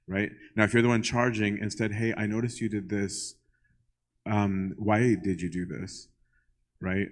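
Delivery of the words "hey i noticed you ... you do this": nice way. Retold or imitated. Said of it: "in some nice way".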